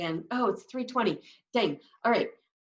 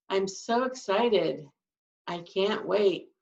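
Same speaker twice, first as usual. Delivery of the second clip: sarcastic slow deadpan; slower than usual. Shown as a demonstration. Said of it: "I'm being sarcastic".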